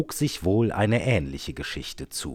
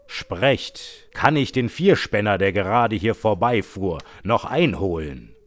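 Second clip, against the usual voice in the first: dark, louder rider's demand; 5 dB louder than usual. Acted. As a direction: call down from the rider's seat, darkly. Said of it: "fragte sie mit dunkler Stimme".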